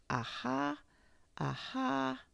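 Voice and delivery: trying the word out in a new high voice; practiced aha. Acted.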